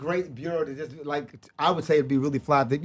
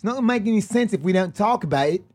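higher-pitched stab at South African; South African accent attempt; 6 semitones higher than usual. Shown as a demonstration. Showing the host his South African accent attempt. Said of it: "a South African accent?".

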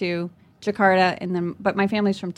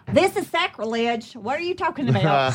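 outraged grandma; 2 semitones higher than usual. Retold or imitated. Grandma scolding her daughter about the angel, mock outrage. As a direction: play the shocked churchgoing grandma. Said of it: "my mom will be like".

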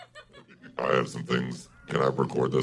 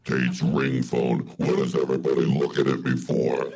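feminine devil voice. Acted. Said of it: "devil voice".

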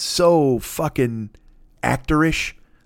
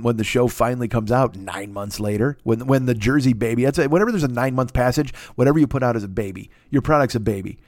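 normal talking voice

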